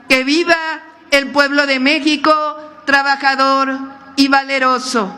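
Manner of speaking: rousing rally speech, building up. Real, not acted. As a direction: rouse the crowd toward the cheer. Closing rally speech cheers.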